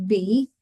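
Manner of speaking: "B" said with lips pressed shut, then released; clear B demo. Shown as a demonstration. Teacher to students, shows lip-closed "B" clearly. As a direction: model "B" slowly so the lips show. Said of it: "you have to make sure you model your lips".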